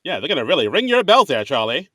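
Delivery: put-on lightly done fast old-time voice; a hint of a quick forties wisecracker; 1940s voice. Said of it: "accents are cool. They're great to do".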